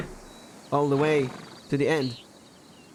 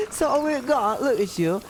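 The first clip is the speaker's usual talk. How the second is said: laughing; 10 semitones higher than usual. Real, not acted. Laughing while mocking the voice.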